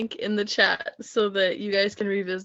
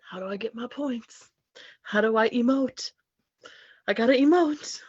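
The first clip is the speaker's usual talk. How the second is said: mocking competitor; 3 semitones higher, 4 dB louder than usual. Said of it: "slam poetry on a competitive level is like".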